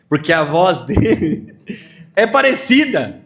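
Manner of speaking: chuckling through the words; preacher amused at the story; laughing. Real, not acted. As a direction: laugh while explaining.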